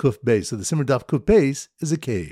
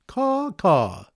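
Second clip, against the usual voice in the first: imitated caws, pitched up; mock bird caw, higher than talk; bird call; 4 semitones higher than usual. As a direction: give two cawing bird calls. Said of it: "is a bird caller going".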